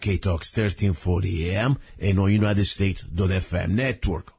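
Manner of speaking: rough caveman voice from a cold; hoarse, heavy-chested head-cold voice; big brute. Real, not acted. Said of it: "as you can hear my caveman voice".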